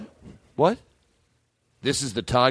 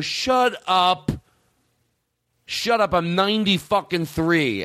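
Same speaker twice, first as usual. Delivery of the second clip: higher, mock-angry "shut up"; mock old man yelling; 6 semitones higher, slower than usual. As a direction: snap back like a cranky old-timer. Imagined ninety-three-year-old yelling back.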